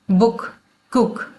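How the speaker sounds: बुक, कुक slowly with the ऊ sound stretched; drawn-out OO. Shown as a demonstration. Teacher demonstrating double O words, vowel drawn out. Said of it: "ऊ के sound को खींच के बोला जाएगा".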